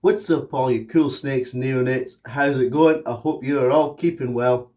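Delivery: hoarse, hay fever throat; talking through a swollen throat; swollen tonsils voice. Real, not acted. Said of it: "apologising for my voice right now".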